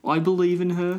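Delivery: light imitation of a New Zealand accent. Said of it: "have a New Zealand accent".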